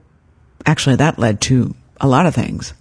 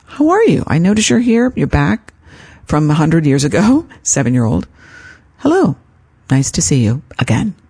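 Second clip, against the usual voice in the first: kind greeting. Shown as a demonstration. Speaker greets her inner critic kindly, a bright friendly hello. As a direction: greet the voice like a welcome old friend. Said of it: "greet it with kindness".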